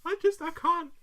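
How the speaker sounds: high, hammed-up anguish; distraught dad. Dad confessing on camera, mock-distraught voice. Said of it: "Hard cut to the dad".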